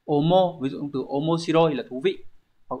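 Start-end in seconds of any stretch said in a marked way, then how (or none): 0.0-0.6 omo read slowly, each syllable clear; slow Japanese reading. Shown as a demonstration. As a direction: spell out omo slowly for the class. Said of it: "đọc là". (đọc chậm rõ từng âm omo)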